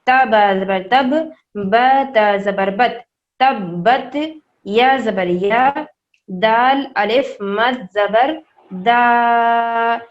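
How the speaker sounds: دال الف مد زبر دا, drawn out very slowly; slow spelling. Shown as a demonstration. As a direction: stretch the دا long as the madd demands. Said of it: "پھر سے بول رہے ہیں".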